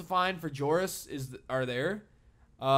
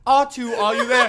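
prissy droid voice; 5 semitones higher, 7 dB louder than usual. Retold or imitated. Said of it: "He's just like".

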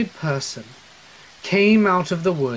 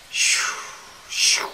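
imitated shuffling noise. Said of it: "I hear the strangest sound".

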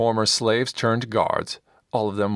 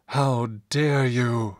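slow, higher-pitched outrage without extra volume; mildly acted roar of anger; roaring indignation; 4 semitones higher, much slower than usual. A narrator's reading. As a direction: draw out an affronted roar, held back. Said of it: "Silas roared".

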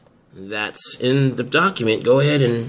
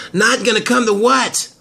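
alarmed question; 11 semitones higher, 3 dB louder than usual. Acted. Frankie alarmed by Mitch's hint.

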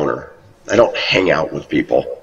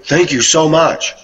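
much higher, slow gushing thank-you; 8 semitones higher, slower than usual. Retold or imitated. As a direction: pour out surprised gratitude, stretching it. Woman thanking for a compliment.

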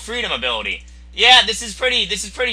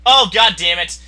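ordinary talk

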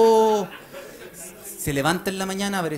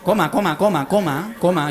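nagging mom; 4 semitones lower than usual. Retold or imitated. Mother on phone.

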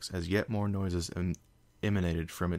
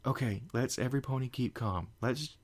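shaky calm; 5 semitones higher than usual. Acted. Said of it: "Twilight breathed out".

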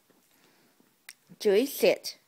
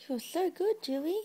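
squeaky praising a dog; 9 semitones higher, 10 dB quieter, faster than usual. Real, not acted. Doting on dog.

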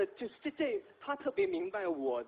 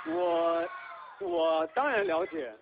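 defensive shout; 4 dB louder, much slower than usual. Real, not acted. Defensive reply to teasing question.

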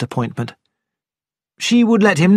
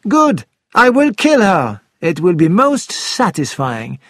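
mock murderous resolve; 4 semitones higher, 3 dB louder than usual. The speaker voices an imagined killer.

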